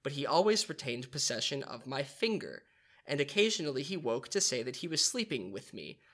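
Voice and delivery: measured read-aloud narration; story narration. Acted. Narrator reading Peter Pan to the others, storytelling voice.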